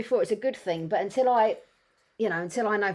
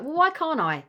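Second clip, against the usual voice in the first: put-on child voice; 8 semitones higher than usual. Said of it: "Don't touch that".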